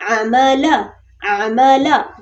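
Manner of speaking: "अमला" with each vowel cut short; quick short vowels. Shown as a demonstration. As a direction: say "अमला" without lengthening any syllable. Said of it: "इसको तेजी से पढ़ेंगे".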